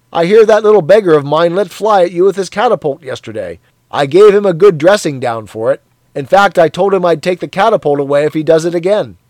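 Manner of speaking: loud, jovial bloke; a hearty colleague teasing; hearty Parsons. Acted. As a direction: boom it out matey. Parsons voiced in dialogue.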